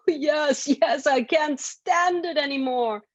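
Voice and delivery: high, pleading goblin voice; desperate goblin. Acted. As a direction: beg to be let go, goblin. Goblin voice in story.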